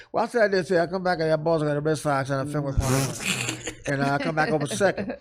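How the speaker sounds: mild mock garbled interview answer; Mickey Rivers impression. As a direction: slur it like Mickey Rivers, barely coherent. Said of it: "exactly what happened".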